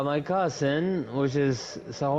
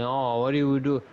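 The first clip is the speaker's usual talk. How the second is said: higher, lightly mocked nagging aunt voice; mocking the scolding aunt; 4 semitones higher, 3 dB louder than usual. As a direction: parody her scolding a little higher. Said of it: "And she told me".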